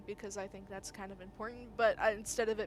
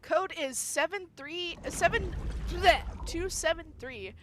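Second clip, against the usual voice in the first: vampire voice; 6 semitones higher, 5 dB louder than usual. Pretend. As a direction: count it out like Dracula. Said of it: "I'm doing my vampire voice".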